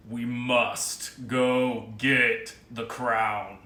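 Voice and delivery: slow, dropped, ominous tone. Shown as a demonstration. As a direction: drop the voice and slow down. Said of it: "it drops in tone".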